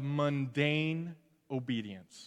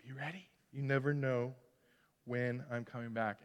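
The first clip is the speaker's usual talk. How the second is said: Jesus; 5 semitones lower, 8 dB quieter than usual. Retold or imitated. Jesus telling disciples to be ready, low solemn command. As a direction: lower the voice and speak with calm authority. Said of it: "And Jesus says".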